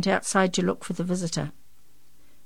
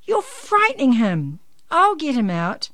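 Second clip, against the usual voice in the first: raised, louder urgent protest; yelling; 7 semitones higher, 7 dB louder than usual. A narrator's reading. Janey protecting the rooster from the adults, yelling. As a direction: call out firmly over the commotion. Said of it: "yelled Janey".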